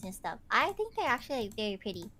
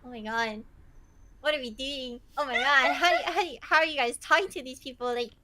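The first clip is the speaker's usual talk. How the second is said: disbelieving exclaim; 4 semitones higher, 5 dB louder, faster than usual. Retold or imitated. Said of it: "I'm just sitting in the corner like".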